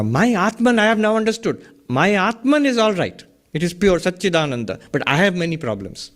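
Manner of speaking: a hint of a muddled seeker; imitating a confused student. Teacher mimics students who misunderstand, mild mock voice. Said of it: "Many people speak like this".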